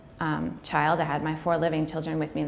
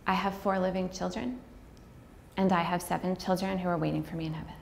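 soft, careful rehearsed phrasing; softer, measured practice read; practiced line; 9 dB quieter than usual. Shown as a demonstration. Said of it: "I practiced".

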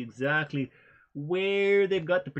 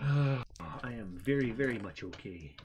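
composed; 4 semitones lower, slower than usual. Pretend. Recovering after mock crying.

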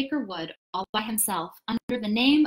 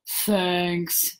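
low, gloomy donkey voice; 5 semitones lower than usual. A narrator's reading. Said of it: "looked at it gloomily".

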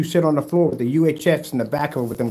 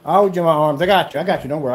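mock comforting; 2 semitones higher, 4 dB louder, faster than usual. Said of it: "I'm trying to calm you down".

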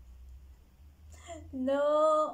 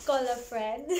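laughing through the words; 6 dB louder than usual. Real, not acted. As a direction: giggle while saying it. Laughs at her own slip.

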